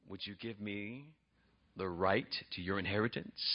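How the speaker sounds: low, very soft proposition; sly, hushed deal-maker; crafty bargaining. Retold or imitated. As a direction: slip the condition in quietly. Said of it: "Jacob is crafty".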